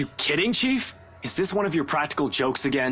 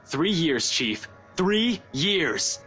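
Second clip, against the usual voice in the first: indignant protest; 3 semitones higher, much slower than usual. Acted. Protests being taken off case.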